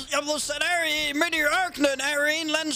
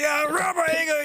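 shouting. Acted. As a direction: shout it, believing it's normal. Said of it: "du skal lade være med at råbe".

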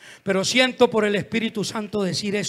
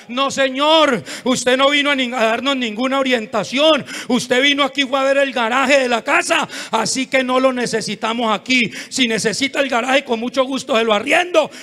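loud, raised-pitch rebuff; indignant husband; 3 semitones higher, 7 dB louder than usual. Retold or imitated. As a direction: act out a husband sending the pastor off. Husband rebuffs the pastor, acted. (esposo indignado, en voz alta)

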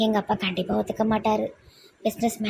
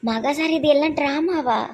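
shocked indignation; 5 semitones higher, 3 dB louder than usual. Acted. Discovers his injury was faked.

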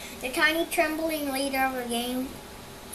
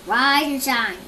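yelling; 6 dB louder than usual. Acted. Camilla yelling at leaves.

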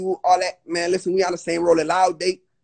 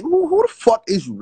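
louder, indignant quoted challenge; retold angry challenge; 3 semitones higher, 5 dB louder than usual. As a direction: confront him, stumbling on the first word. Retold confrontation on a call.

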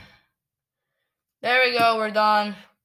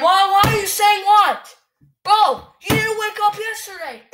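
angry; 6 semitones higher than usual. Real, not acted. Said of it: "I'm very mad right now".

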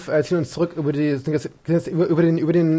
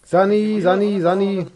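man down shout; 5 semitones higher, slower than usual. Real, not acted. Bleeding player calls medic again.

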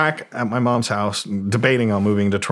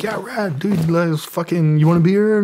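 high, hyped party-host voice; imitating Tommy; 8 semitones higher than usual. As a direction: offer the beer like an excited rocker. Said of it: "He's like".

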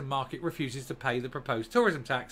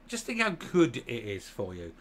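sarcastic; 3 semitones lower than usual. Real, not acted. Mock cheer to voters.

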